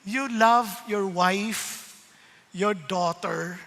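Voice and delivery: slow, calm, lightly voiced answer; lightly voiced God. God gently tells the preacher to love his wife, slow and calm. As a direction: give each word time, like a gentle lesson.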